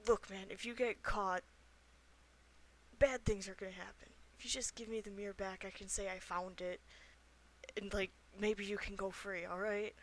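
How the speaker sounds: soft, hushed pleading; half-whispered. Acted. Player bargaining with a hidden character, half-whispering. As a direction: coax them quietly out of hiding. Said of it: "I'll kinda whisper".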